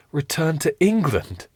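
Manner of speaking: can't believe what he heard; shocked question. Acted.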